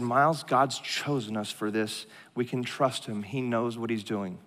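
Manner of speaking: quietly steady a spouse who is spiraling; calm reassurance. Retold or imitated. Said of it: "calm me down".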